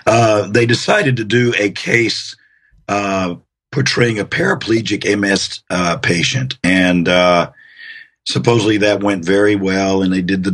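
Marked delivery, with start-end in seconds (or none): 0.1-6.6 allergy-roughened voice. Real, not acted. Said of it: "excuse my voice, I'm fighting allergies".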